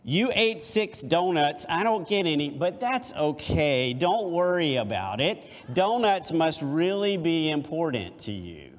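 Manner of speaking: sugary, wounded guilt-trip tone; passive aggressive. Shown as a demonstration. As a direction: sound hurt but pretend it's fine. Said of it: "Passive-aggressive voice".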